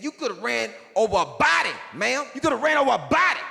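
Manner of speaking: high, loud cop voice, rising to a fast yell; imitating a yelling cop. Cop yelling at mama after she drove around the accident, high mock yell. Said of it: "yelling at my mama".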